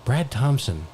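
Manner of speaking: hushed golf color commentary; low, soft deadpan commentator. Acted. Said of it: "You're the color commentator".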